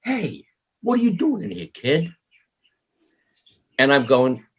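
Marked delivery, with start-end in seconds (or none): 0.0-2.1 a lightly voiced rocker ribbing a twelve-year-old; gruff rocker to kid. A drummer teasing the kid at the bar, mock-gruff. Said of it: "and goes".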